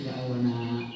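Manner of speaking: jokingly crying ya Allah, Nak; mock lament. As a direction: play the weeping in-law then burst into a laugh. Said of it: "aku nangis".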